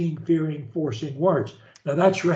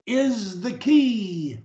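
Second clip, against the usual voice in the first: careful pronunciation. Shown as a demonstration. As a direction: draw out every word with full articulation. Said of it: "pronunciation of every word".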